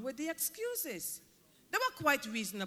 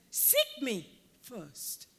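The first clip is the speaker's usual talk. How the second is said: seek me first, very slow and deliberate; slow emphatic quote; 3 semitones lower, 3 dB quieter, much slower than usual. Acted. Preacher answering the excuses with Jesus' slow command. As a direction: draw each word out as Jesus. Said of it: "Jesus' emphasis is on the word first".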